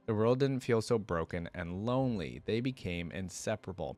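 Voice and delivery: measured read-aloud narration; story narration. Acted.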